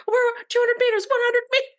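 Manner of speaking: high, mock pilot countdown. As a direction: call out the meters, mocking. Mocking crew countdown.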